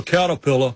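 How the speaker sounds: "Caterpillar" with the R's dropped. Retold or imitated. Comedian copying a radio ad, "Caterpillar" without R's. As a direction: say "Caterpillar" without sounding any R. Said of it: "he couldn't pronounce ours".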